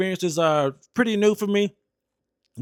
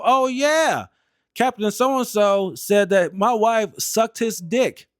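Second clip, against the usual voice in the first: mock innocent; 5 semitones higher, slower than usual. Teller retells outing captain to wife.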